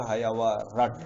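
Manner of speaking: हा, या, व, रट with a hit on the र of रट; stress on र. Shown as a demonstration. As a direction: strike the र in रट after three even syllables. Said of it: "र पर थोड़ा मारेंगे ना".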